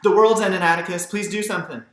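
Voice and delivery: put-on high, loud panicked child; a scared little girl yelling about the end of the world; frightened cry. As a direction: beg for help in a fright. Child terrified at first snow.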